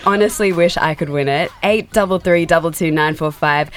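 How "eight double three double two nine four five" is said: punchy phone number read; radio contest promo. Shown as a demonstration. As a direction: sell the number to listeners. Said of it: "Call now to win".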